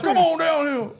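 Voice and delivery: high, loud granny challenge; old lady. Retold or imitated. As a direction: holler it as a hammed-up old lady. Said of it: "his old black lady".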